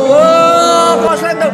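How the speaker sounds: loud startled outburst. Real, not acted. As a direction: yell in sudden alarm. Startled by shorting robot.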